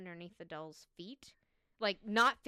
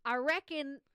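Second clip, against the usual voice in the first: attempted Australian accent, higher and louder; 7 semitones higher, 10 dB louder than usual. Shown as a demonstration. Co-host trying the quote in an Australian accent. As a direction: put on a clumsy Australian accent. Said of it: "say this with an Australian accent".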